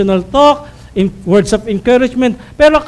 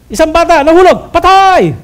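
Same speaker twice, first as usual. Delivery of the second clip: mock headline shout; 5 semitones higher, 5 dB louder than usual.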